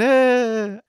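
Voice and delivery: half-hearted imitation of people fleeing in fright; mock scream. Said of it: "they all ran out screaming".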